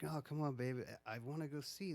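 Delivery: softly wheedling, imitated boyfriend; coaxing. Guy telling his girlfriend he wants to explore, soft coaxing.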